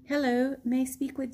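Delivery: put-on half-hearted English accent of a polite caller; attempted English accent. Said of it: "in his English accent, I can't".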